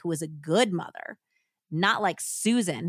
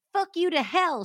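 much higher, louder curse; furious cry; 10 semitones higher, 5 dB louder than usual. A narrator's reading. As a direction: hurl the curse at him. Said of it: "she cried".

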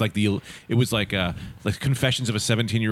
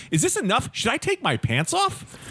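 put-on higher, slow girlish voice asking innocently; eager girl; 10 semitones higher than usual. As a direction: play the girl, higher and drawn out.

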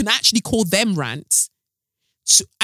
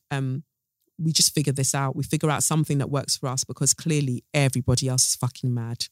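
trailing off quietly; 3 semitones lower, 6 dB quieter than usual. Real, not acted. Fading reflective close.

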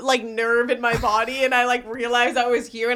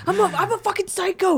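higher-pitched mocking imitation; mocking friend's voice; 8 semitones higher than usual. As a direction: mimic your friend in a raised pitch. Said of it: "That's you".

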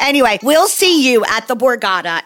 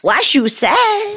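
high excited shout of the title; hyped segment call; 13 semitones higher, much slower than usual. Acted. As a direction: call the jingle like a hype man.

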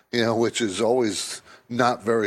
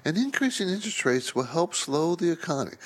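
a touch softer, mock official tone; understated Fed-speak imitation; quoting the Fed; 2 semitones higher, 4 dB quieter than usual. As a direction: lightly voice a cautious Fed official. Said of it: "What they say is".

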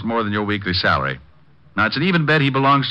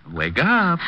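higher, more insistent wake-up call; calling louder; 7 semitones higher than usual. Acted. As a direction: raise it to rouse a knocked-out man.

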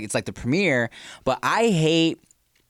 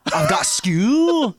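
very slow, high, loud whining; whiny kid voice; 7 semitones higher, 5 dB louder, much slower than usual. Pretend. Host mimicking a whining kid all day, slow high whine. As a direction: drag out school like a whining kid. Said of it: "No, it's not funny".

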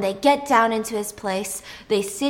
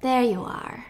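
soft whisper; 3 dB quieter than usual. Retold or imitated. Captor calming her.

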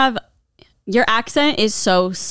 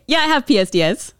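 higher, lightly put-on Boston accent; letters said with a Boston sound; 4 semitones higher than usual. Shown as a demonstration. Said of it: "we're doing a Boston accent".

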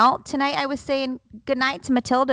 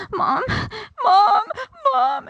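high, loud mock-panicked child calling; imitated freaking out; 12 semitones higher, 6 dB louder, slower than usual. Son runs in to mom, imitated freaking out. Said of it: "just started freaking out".

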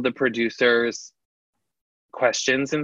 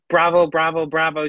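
mild mock yell, raised a little; light imitation of someone yelling; retold yelling; 4 semitones higher than usual. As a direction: imitate her calling it out, half-hearted. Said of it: "She just starts yelling".

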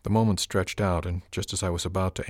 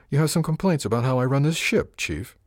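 higher, louder, irritated retort; snapped; 7 semitones higher, 5 dB louder than usual. A narrator's reading. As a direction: snap back at a challenge, then drop on the title. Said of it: "I snapped at her".

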